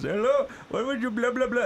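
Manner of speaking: mock Apu greeting. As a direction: toss off a lazy Apu impression. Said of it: "and Apu says".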